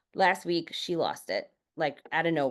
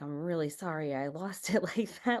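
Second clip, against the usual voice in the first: put-on apologetic child; 3 semitones higher than usual. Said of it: "she was like".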